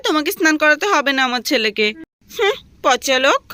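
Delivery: scolding wife. Acted. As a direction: play the irritated mother taking her son's side. Wife role voiced by same actor.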